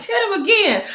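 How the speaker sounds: high, delighted urging; gleeful egging on. Retold or imitated. Viewer urging Vincent to hit Tariq again, high and gleeful. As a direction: cheer the beating on, high.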